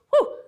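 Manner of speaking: high, sharp whew; relieved whew. Retold or imitated. Speaker recalling a terrifying boss, a high whew. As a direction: let out a big whew.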